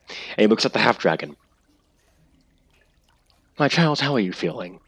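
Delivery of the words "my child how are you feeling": calm and caring. Acted. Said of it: "in this completely calm and caring voice".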